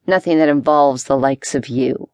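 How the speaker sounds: low, contemptuous rough leader; spat with a sneer. A narrator's reading. Gang leader warns off a nobleman, spitting contempt. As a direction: spit it out with disdain. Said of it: "he spat".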